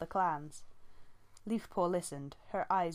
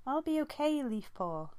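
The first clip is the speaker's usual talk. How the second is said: gentle comfort; 9 semitones higher than usual. A narrator's reading. Squirrelpaw comforting her sister Leafpaw, gentle. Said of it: "the gentleness of Squirrelpaw's voice".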